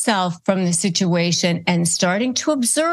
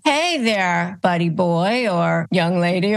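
mildly condescending. Shown as a demonstration. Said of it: "You don't have to say it like that".

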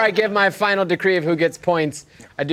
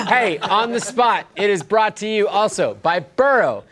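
ad read; 3 semitones higher than usual. Acted. Sponsor ad read.

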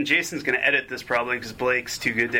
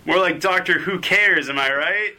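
usual speaking voice

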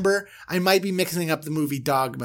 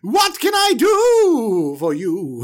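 Aaron's voice; 7 semitones higher, 8 dB louder, much slower than usual. Retold or imitated. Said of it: "let me go get Aaron".

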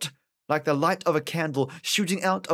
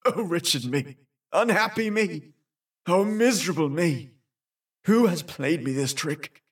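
bawling lament. A narrator's reading. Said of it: "crying, shouting, and bawling".

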